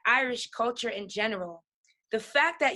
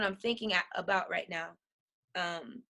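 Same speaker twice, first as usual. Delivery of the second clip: getting emotional; 6 semitones lower, 7 dB quieter than usual. Real, not acted. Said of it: "I'm getting a little bit emotional".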